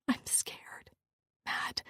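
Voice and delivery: breathy frightened whisper. Acted. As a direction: whisper it through panting breaths. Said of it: "I whispered".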